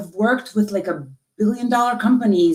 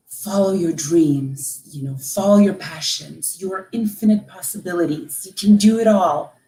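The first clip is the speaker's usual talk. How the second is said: tender advice. Retold or imitated. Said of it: "couldn't wait to tell my daughter".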